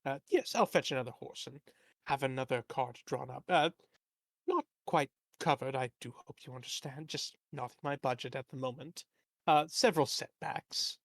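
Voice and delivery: lightly voiced fussy merchant; a hint of a fretful, rambling tradesman. Merchant NPC rambling excuses.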